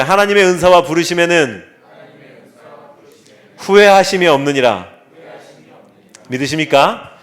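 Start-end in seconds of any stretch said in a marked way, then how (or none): 0.0-4.9 the verse again, fuller and louder; louder recital. Shown as a demonstration. Pastor asks congregation once more, louder. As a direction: push the verse harder the second time. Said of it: "한번 더요".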